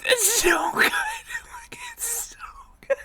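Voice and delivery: high squeal of disbelief breaking into laughter; helpless, tearful laughing; uncontrollable laughing. Real, not acted. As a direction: talk through a real laughing fit. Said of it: "I can't stop laughing at that".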